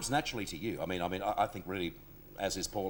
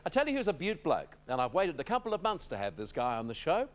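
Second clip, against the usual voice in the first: lively talk-show build-up to a guest; higher-pitched host's welcome; guest introduction; 6 semitones higher than usual. Acted. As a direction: list the praise with rising lifts, then land the name.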